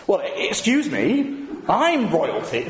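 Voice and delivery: light royal-accent impression, drawn out; Prince Charles accent. Insulted prince answering a wedding guest, in a mock royal accent. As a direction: put on the royal's accent, slowly. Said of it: "I shouldn't do the accent".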